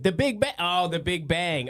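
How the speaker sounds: a high, slowed-down sarcastic marvel at the label; mock awe. Mocking how the public hears a science label, sarcastic awe. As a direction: say it like the label explains everything.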